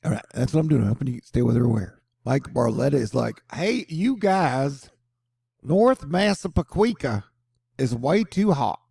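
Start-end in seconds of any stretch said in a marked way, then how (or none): 3.5-8.8 high, slow Northeastern accent impression. Local guy complaining about heat, Northeastern accent. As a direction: drawl it out like a New Yorker complaining. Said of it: "version of a Northeasterner accent".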